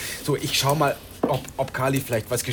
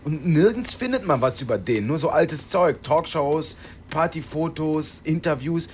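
excited; 6 semitones higher, 6 dB louder than usual. Acted. Excitedly urging search.

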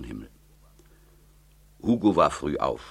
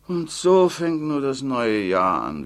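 put-on higher, plaintive old mother's voice; fretful old mother; 8 semitones higher, 6 dB louder, slower than usual. Old mother pleading with her daughter Tilde, higher and plaintive. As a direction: whine it like a worried old mother.

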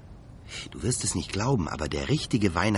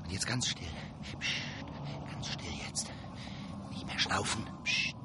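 much softer, whispered, hushing; hushed whisper; 10 dB quieter than usual. Acted. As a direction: whisper so the pursuers won't hear. Hiding from pursuers, hushing reindeer. (leises Flüstern)

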